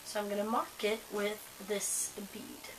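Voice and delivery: soft unvoiced whisper while busy. Real, not acted. Vlogger whispering to herself while marking a dread. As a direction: murmur it under your breath, focused on the task.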